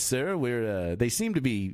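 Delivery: lightly pompous officer voice; a hint of self-important cartoon captain; Zapp Brannigan. Shown as a demonstration. Operator in an airplane reporting back, lightly pompous voice. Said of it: "like a real pompous".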